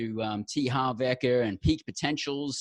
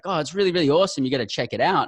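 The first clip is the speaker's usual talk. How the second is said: higher, louder and fast, gushing; wife's excitement; 3 semitones higher, 6 dB louder, faster than usual. Retold or imitated. Husband imitating his wife gushing about a CD, eager and fast. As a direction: retell a wife raving about a CD, quick and bubbly. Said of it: "She's like".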